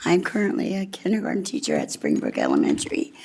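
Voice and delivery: nervous voice cracking as she starts; cracking voice, a bit shaky. Real, not acted. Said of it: "Sorry, my voice is cracking".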